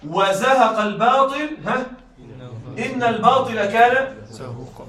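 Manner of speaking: slow, measured recitation with drawn-out words; Quran recitation. Shown as a demonstration. Teacher quoting a verse to the students, slow recitation. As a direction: recite the verse slowly, stretching الباطل. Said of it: "من هذا قوله تعالى".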